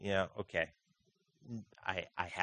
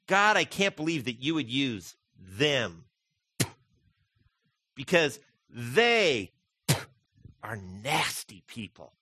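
disgusted spitting. Retold or imitated. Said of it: "he spits after he says it".

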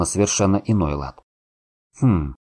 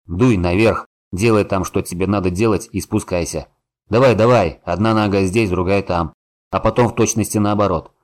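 urgent loud urging; 3 dB louder than usual. Acted. Gnome hurries hero up the cliff.

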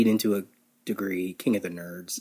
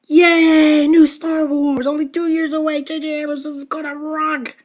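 high, loud hammed-up fan squeal; mock fan excitement; 6 dB louder than usual. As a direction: gush like a giddy fanboy. Mocking excited Star Wars fans.

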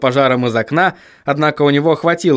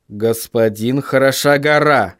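slow, curt address; 2 semitones lower than usual. Acted. William addresses the dwarf with his back turned, curt. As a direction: cut in firmly, taking your time. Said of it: "резко произнёс Вильям".

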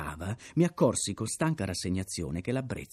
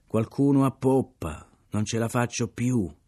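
pitiful wail; 3 semitones higher, 6 dB louder than usual. Acted. Gambrill at the helm wails pitifully for relief, louder. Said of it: "La sua voce gemeva pietosamente".

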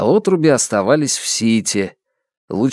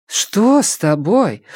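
surprised; 9 semitones higher, slower than usual. Acted. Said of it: "удивилась матушка".

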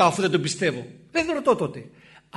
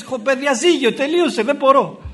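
loud, exasperated mock yell, higher; fed-up shout; 6 semitones higher, 5 dB louder than usual. Priest imitating a fed-up person, loud exasperated yell. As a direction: throw up your hands and yell you've had enough. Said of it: "Αρχίζεις να φωνάζεις και λες".

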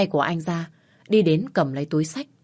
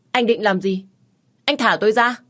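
near tears; 5 semitones higher, 6 dB louder than usual. Acted. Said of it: "nói như gần khóc".

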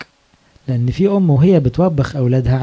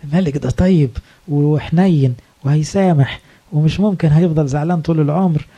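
coaxing flattery. Retold or imitated. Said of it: "كلام بقى بتاع الستات اللي يغلب ده".

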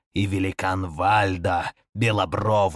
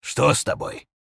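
frightened whisper; 7 semitones higher, 5 dB louder than usual. Acted. Frightened question to dead squire.

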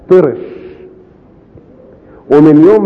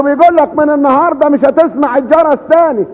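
pitched much higher, repeating it up for a deaf listener; calling louder to a deaf man; 13 semitones higher than usual. Retold or imitated. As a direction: raise the voice so the deaf mayor can hear. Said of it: "علي حسك مش سامع". (بصوت أعلى لعمدة أطرش)

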